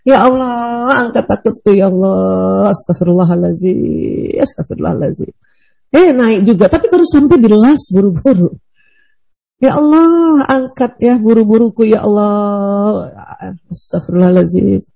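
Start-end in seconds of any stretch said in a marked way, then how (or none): 0.0-5.3 slow drawn-out plea to Allah; slow pleading prayer. Shown as a demonstration. Teacher demonstrating a prayer to lift sadness, slow and pleading. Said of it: "demonstrates prayer". 9.6-14.8 slow drawn-out plea to Allah; slow pleading prayer. Shown as a demonstration. Teacher demonstrating a prayer to lift sadness, slow and pleading. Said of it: "demonstrates prayer".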